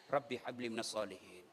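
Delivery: soft, low murmured prayer into an ear; whispered prayer. Shown as a demonstration. Preacher shows mothers how to whisper prayer. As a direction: breathe it into the child's ear. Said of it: "bisik telinganya".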